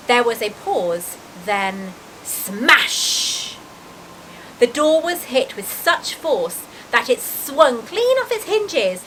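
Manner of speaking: expressive, lilting storybook reading; story narration. A narrator's reading. Reader describing the giant's arrival, in animated storytelling voice. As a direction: read aloud with drama on the vivid words.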